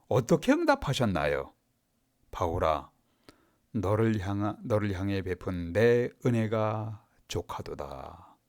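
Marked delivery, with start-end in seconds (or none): 2.3-8.4 low, soft and slow divine answer; calm, lightly voiced God speaking gently; God answering Paul. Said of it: "이게 응답이에요". (낮고 느리게 달래는 하나님의 음성)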